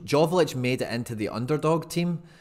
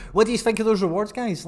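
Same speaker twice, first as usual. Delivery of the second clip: high, loud and quick through laughter; laughing; 10 semitones higher, 6 dB louder than usual. Real, not acted. Streamer asking viewers after babbling, laughing. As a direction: ask it while still cracking up.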